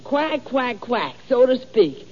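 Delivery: mock quacking imitation of the teacher; duck quacking. Boy imitating teacher's voice as duck quacks. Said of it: "you always go like this".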